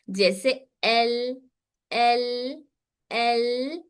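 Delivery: "एल" half-held with the voice escaping; teacher demo of the in-between letter. Shown as a demonstration. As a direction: hold "एल" lightly at the tongue. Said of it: "यहाँ पर हमारा मखरज पे hold".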